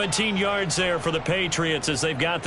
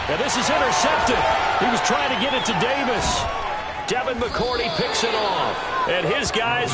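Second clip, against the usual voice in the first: excited play call; 5 semitones higher than usual. Real, not acted. Sudden interception call.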